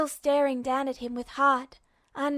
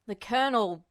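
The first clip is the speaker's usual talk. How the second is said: shocked stammer. A narrator's reading. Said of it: "Havoc stammered at last".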